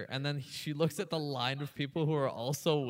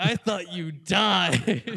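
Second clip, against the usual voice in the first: put-on scream, higher and louder; 3 semitones higher, 7 dB louder than usual. Retelling a friend shouting at the hotel room: imitating Rob screaming. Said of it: "he's just screaming at me".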